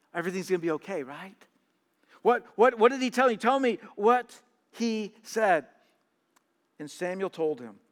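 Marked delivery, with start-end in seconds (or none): 2.2-5.7 louder and higher, eager "what did he tell you?"; eager question. Retold or imitated. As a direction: push eagerly for the news. Saul eagerly asking again.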